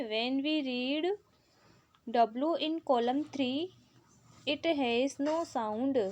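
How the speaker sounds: slow, deliberate reading of an English instruction; slow textbook read. Acted. Teacher reads the book's question to pupils, slowly. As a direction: read each word out slowly for the class.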